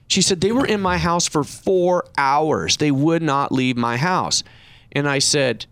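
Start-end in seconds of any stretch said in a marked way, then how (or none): 0.4-4.4 slow, drawn-out imitation of a distressed client; retold tearful protest. Client complains about painters who stayed, mock tearful and slow. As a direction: stretch out the complaint, imitating her upset. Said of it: "just crying on the phone".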